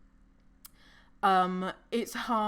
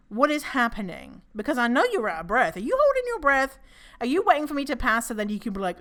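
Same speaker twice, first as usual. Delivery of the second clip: loud, higher, incredulous questioning; mock suspicious interrogation; 4 semitones higher, 5 dB louder than usual. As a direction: grill them in comic outrage. Acted suspicious interrogation of non-panting walkers.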